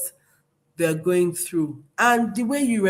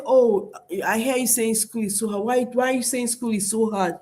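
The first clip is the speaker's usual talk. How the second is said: calm, patient, inviting questions; gentle validating parent; 2 semitones higher than usual. Shown as a demonstration. Parent answering a struggling child, gently validating. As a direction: soothe and draw the child out. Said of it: "Not by saying".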